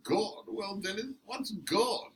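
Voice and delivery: high, mock incredulous roommate. The speaker imitates the flatmate's disbelief about God. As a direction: imitate the sceptic's scoff at God. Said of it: "with the incredulity in his voice".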